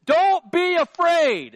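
high, slow, loud shout; an angel hollering at fleeing shepherds; angel yelling. Acted. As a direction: call it out big to get their attention. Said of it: "He's, like, yelling at them".

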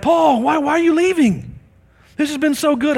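high, loud disappointed plea; pleading hosts. Retold or imitated. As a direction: beg him not to leave. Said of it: "they're like".

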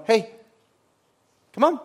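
put-on soft, hushed encouragement to a small child; father guiding his child softly past a cord; gentle coaxing father. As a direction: coax a little one along quietly. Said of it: "you see a father going".

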